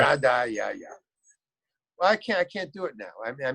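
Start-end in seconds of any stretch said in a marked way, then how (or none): 0.0-0.9 brief mock Russian accent demo; hammed-up comedy Russian accent; stand-up Russian accent. Shown as a demonstration. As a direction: give a quick comic sample of a Russian accent. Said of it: "Russian accent".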